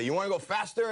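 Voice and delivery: hyping the riders up over the mic; carny calling into a microphone; ride operator mic call. Retold or imitated. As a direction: ride operator teasing the crowd. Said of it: "I would say".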